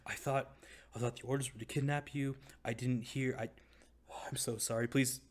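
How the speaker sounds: timid, halting plea with gasped breaths; meek, scared pleading. Acted. Frightened captor begging those he kidnapped for his life, meek pleading. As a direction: plead meekly and humbly for mercy. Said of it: "as he meekly and humbly".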